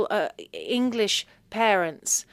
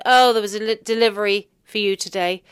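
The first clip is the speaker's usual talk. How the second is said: mum's voice, said brightly and louder; voicing mum; 9 dB louder than usual. Mum announcing a delivery, louder.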